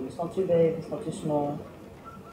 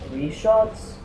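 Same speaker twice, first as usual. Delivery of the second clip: incredulous; 6 semitones higher, 4 dB louder than usual. Real, not acted. Outraged at taking three shots.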